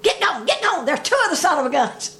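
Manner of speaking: mock turkey gobbler; turkey gobble. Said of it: "turkey gobbler strutted himself and blowed".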